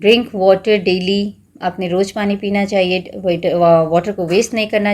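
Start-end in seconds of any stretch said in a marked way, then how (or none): 0.0-1.3 very slow, clear reading; slow teacher dictation; slow example sentences. Shown as a demonstration. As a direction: read each example slowly for the class. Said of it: "water से आप बहुत सारे word बना सकते हो".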